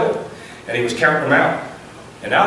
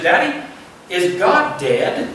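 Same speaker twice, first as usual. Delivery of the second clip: put-on little boy voice; 3 semitones higher, much slower than usual. Preacher voices small boy asking.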